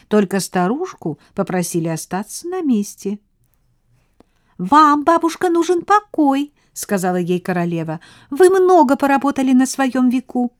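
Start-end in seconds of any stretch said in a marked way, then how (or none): 4.6-10.5 high, bright queen mouse. A narrator's reading. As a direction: regal little mouse, higher and louder.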